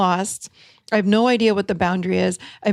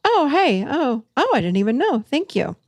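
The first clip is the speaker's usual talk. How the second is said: mock surprise; 5 semitones higher than usual. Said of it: "people will go".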